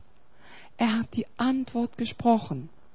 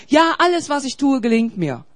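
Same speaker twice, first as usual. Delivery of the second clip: mock smug proclaiming; 3 semitones higher, 5 dB louder than usual. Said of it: "Manche Leute proklamieren".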